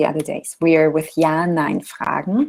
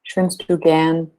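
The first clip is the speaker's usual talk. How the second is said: casual informal tone. Shown as a demonstration. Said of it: "when I'm talking to a person I know well".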